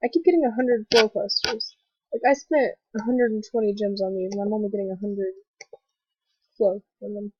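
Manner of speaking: blocked nose from a cold; talking with a stuffy, blocked nose. Real, not acted. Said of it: "so my voice kinda probably sounds a bit stuffy".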